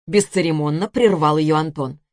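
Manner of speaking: ordinary delivery, nothing marked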